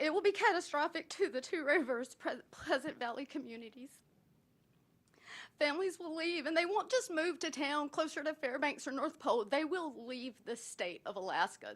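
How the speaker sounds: heartfelt, moved, earnest emotional delivery. Speaking against closing the two rivers elementary school: a little emotional. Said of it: "I'm a little emotional".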